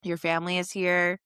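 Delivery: slow, spaced-out reassurance; comforting. Retold or imitated. Boyfriend soothing his panicking partner, comforting. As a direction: retell a steadying reassurance, phrase by phrase. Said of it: "rubbing his back and comforting him".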